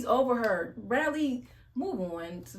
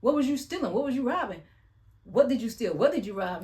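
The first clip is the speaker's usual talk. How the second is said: put-on pushy child; 4 semitones higher, 4 dB louder than usual. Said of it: "the daughter is checking him".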